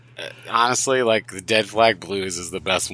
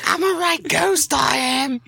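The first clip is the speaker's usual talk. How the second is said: very high hammed-up English voice; mock English accent; slower than usual. Friend joining the bit as English ghost: high mock English accent. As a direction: play a cheeky English ghost, pitched high.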